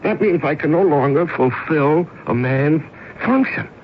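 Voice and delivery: rising anguish, voice climbing on function; anguished lament. Acted. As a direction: lament being jobless. Man lamenting lost role.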